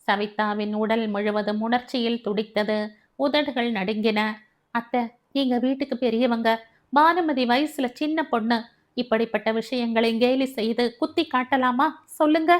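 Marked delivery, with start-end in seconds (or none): 4.7-12.5 a touch of tremble, rising plea; trembling voice. Acted. Daughter-in-law pleads with mother-in-law, mild tremble. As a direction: hold back tears while pleading. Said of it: "என்றாள் குரல் நடுங்க".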